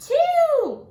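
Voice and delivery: high, loud announced answer; excited answer. Acted. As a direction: call out the answer like a reveal. Answers the count for children.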